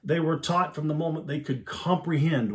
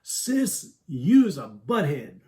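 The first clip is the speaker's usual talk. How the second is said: put-on toddler insult; 2 semitones higher, 5 dB louder, much slower than usual. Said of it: "his little high-pitched voice squeal".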